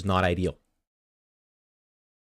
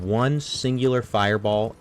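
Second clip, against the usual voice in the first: boss quote slowed; 3 semitones higher, 4 dB louder than usual. Retold or imitated. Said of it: "He said".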